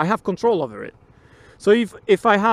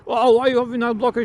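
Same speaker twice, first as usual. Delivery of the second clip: mildly argumentative mock complaint, higher pitch; 4 semitones higher, faster than usual. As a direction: imitate someone picking an argument. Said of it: "actually arguing with people".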